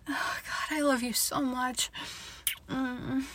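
soft, breath-filled declaration of love; tender murmur. Acted. Tender moment between partners.

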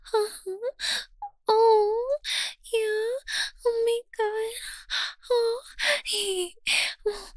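normal talking voice

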